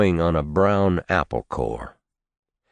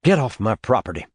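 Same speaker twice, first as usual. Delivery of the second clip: tight voice; 4 semitones higher, faster than usual. Acted. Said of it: "in a tight voice, as if he were keeping it calm by force".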